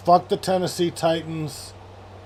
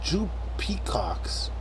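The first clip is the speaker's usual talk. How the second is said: whispered name; 2 semitones higher, 5 dB quieter, slower than usual. Acted. Reading a joke name aloud.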